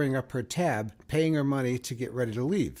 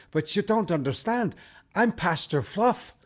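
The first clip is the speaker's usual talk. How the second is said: higher, protesting priest with a bad Irish accent; flustered Irish pastor, pitched up; 6 semitones higher, 3 dB louder than usual. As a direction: plead your case in amateur Irish. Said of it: "I do a very bad Irish accent".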